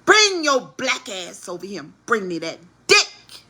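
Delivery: imitated bossy order, punched at both ends; mock demand. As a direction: order him over in a hammed-up burst. Acts out the woman's demand.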